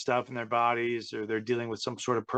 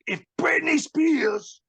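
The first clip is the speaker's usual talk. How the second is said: much higher, louder, drawn-out hammed-up yell; mock ranting shout; 12 semitones higher, 4 dB louder than usual. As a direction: bellow the comparison to a singer like a diva. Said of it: "and he's like".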